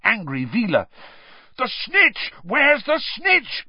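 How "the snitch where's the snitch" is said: high, urgent calling out; bellowing. A narrator's reading. Charlie asking along the row for the snitch, bellowing. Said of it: "bellowed Charlie along the row".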